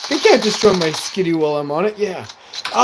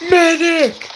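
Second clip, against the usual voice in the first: louder repeated call for medic; man down shout; 6 dB louder than usual. Real, not acted. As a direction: yell again, more urgent. Calling for medic, teammate down.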